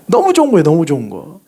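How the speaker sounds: real delighted laugh through the words. Real, not acted. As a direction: giggle it out, tickled pink. Delighted by praise of church.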